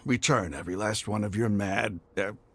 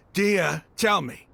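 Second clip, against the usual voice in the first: loud demand; 8 semitones higher, 4 dB louder, slower than usual. Acted. Pleading demand after outburst.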